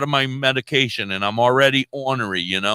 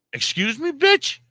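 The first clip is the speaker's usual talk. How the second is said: high, loud indignant tirade; loud outraged retelling; retold angry rant; 10 semitones higher, 4 dB louder than usual. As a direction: tear into her, outraged.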